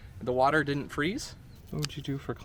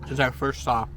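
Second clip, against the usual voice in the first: talking through a mouthful of ice cream; words muffled round a bite; mouth full; 8 dB louder than usual. Real, not acted. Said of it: "excuse me, I'm gonna talk with my mouth full".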